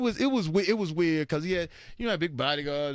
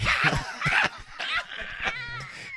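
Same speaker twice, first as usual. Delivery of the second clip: big high laugh. Real, not acted. Laughing at his own elevator story, high howl.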